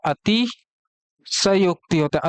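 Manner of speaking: अतिशयोक्ति drawn out, full स; slow careful demo. Shown as a demonstration. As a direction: stretch अतिशयोक्ति so students hear the स. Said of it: "स में पूरा मात्रा रहता है". (अतिशयोक्ति धीरे, पूरा स)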